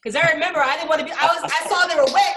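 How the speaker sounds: ordinary delivery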